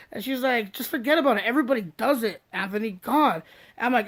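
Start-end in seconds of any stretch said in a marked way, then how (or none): 0.7-3.4 Mary brushing it off. Retold or imitated.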